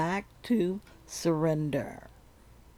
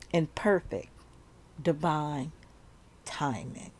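calm affirmation. Shown as a demonstration. Repeat the following affirmation.

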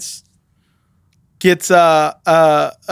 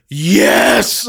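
high, drawn-out mock cheer; retold gleeful yell; triumphant cheer; 7 semitones higher than usual. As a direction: cheer it out in imitation, stretched long. Retelling friend's triumphant cheer.

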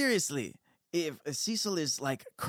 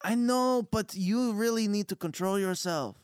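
higher, firm reprimand; scolding character voice; 7 semitones higher than usual. Acted. Fertone telling Cecil to control himself, scolding. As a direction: rein in an unruly companion.

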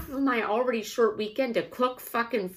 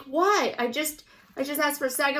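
mock whine, a touch higher and quick; whiny kid voice; 4 semitones higher, faster than usual. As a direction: imitate a ten-year-old whining for a snack. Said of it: "he does his whiny voice".

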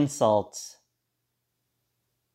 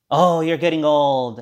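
mock birthday card; 3 semitones higher, 6 dB louder than usual. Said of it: "it'll go something like this".

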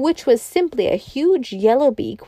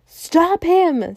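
mild narrated scream; 9 semitones higher than usual. A narrator's reading. Crowd after the runaway elephant, mildly screaming. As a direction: call it out high, with restrained volume. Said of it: "screamed the populace".

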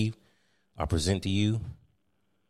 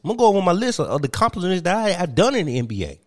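higher, insistent ex-player voice; Kwame Brown; 6 semitones higher, faster than usual. Acted. Kwame Brown going over his list over Steve. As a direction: steamroll past the interruption. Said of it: "I present to you Mister Kwame Brown".

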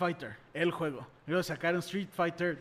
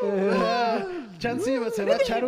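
much higher and louder, bursting with excitement; high excited outburst; excited squeal; 14 semitones higher, 5 dB louder, slower than usual. Real, not acted. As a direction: squeal it out, can't contain yourself. Hyping up a Mario voice.

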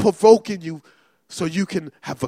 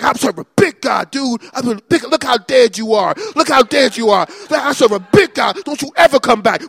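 taunting David; 4 semitones higher, 5 dB louder, faster than usual. Acted. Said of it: "It's like".

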